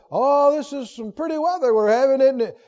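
light, everyday irony; sarcastic. Acted. Remarking on the weather while it storms, sarcastic. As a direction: say it meaning the opposite. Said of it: "saying something but meaning the opposite".

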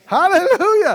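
loud, high praise shout; shouted hallelujah. Real, not acted. Preacher to congregation, shouting praise. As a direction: burst out in praise. Preacher exclaims at full force.

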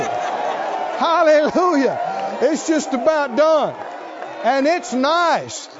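drawn-out, emphatic pulpit delivery; celebratory church testimony; triumphant preaching. Real, not acted. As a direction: stretch the big words out for the cheering crowd. Preaches a triumphant report to congregation.

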